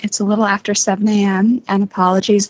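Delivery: groggy just-woke-up voice; sleepy morning voice, barely used. Real, not acted. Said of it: "this is my morning voice".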